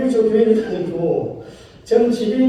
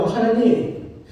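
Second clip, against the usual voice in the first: lament prayer; 2 semitones higher than usual. Acted. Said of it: "시편 기자가 뭐라고 얘기하냐면요".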